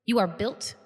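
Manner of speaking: measured oratory, long pauses between phrases; solemn guild leader. Acted. Guild leader tells pledges they were chosen, solemn speech. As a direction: build to a peak, then settle gravely.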